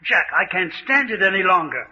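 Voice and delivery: mild acted hysteria, begging to stop; hysterical panic. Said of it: "with your hysteria".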